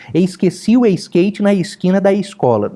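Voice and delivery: Rio accent, slick smooth s with an extra i before each s; smooth carioca S. Shown as a demonstration. Pastor mocking a carioca who thinks he sounds serious, Rio accent. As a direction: slide the s like okra, carioca trying to sound serious. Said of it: "faz um S liso que parece um quiabo".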